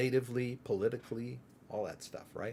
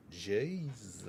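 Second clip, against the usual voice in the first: low, stretched-out Southern drawl on JESUS; Southern accent; 6 semitones lower, 9 dB quieter than usual. Shown as a demonstration. Showing how the South says Jesus, in a drawn-out Southern accent. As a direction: draw JESUS out into many syllables, Southern style. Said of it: "Jesus has five syllables".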